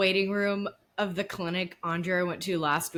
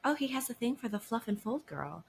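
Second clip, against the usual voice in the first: unbothered Kelly; 3 semitones higher, 7 dB quieter than usual. Retold or imitated.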